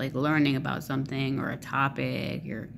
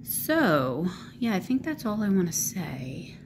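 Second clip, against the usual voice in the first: whisper; 4 semitones higher than usual. Real, not acted. Whispered wrap-up aside.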